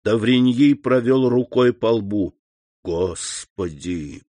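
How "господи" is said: very slow, soft, low murmur; whispered exclamation. A narrator's reading. Doctor wipes his brow, whispering slowly to God. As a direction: breathe a slow prayer under your breath. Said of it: "прошептал он".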